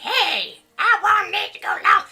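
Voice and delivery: high, loud, hammed-up plea; excited mock protest. Streamer retelling the poll starting too soon, high excited protest. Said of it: "'cause I get excited".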